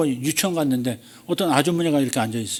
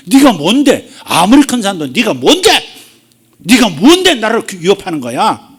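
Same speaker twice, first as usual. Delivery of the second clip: bold, louder challenge; louder, defiant rebuke of the mountain; 6 semitones higher, 7 dB louder than usual. Retold or imitated. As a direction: stand up to it and rebuke. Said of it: "그렇게 말하는 거죠".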